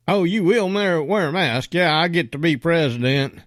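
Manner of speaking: high, sneering parody of Biden; mocking Biden. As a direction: mimic his campaign ad mockingly. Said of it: "I think that was your commercial".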